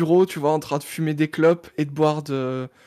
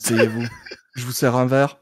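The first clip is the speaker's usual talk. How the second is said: lightly lowered detective voice; detective in role; 5 semitones lower than usual. Acted. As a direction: play the detective receiving a client, lower. Playing detective Malone to client. (voix de détective, un peu plus grave)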